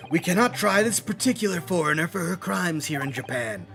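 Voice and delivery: put-on country old man voice. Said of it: "Country old man voice".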